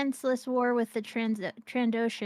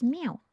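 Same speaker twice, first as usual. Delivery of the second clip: cat meow; 4 semitones higher than usual. Pretend. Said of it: "Chicken kitty says".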